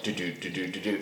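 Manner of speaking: low, soft thumping heartbeat noise; imitated heartbeat. Comic telling a friend about his edible, imitated heartbeat. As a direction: mimic a racing heart under your breath. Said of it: "I see my heart beating".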